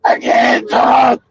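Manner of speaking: slow, dragged-out words like a man who can hardly talk; imitating a sick friend. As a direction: stretch each word out like talking hurts. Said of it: "he like, he like".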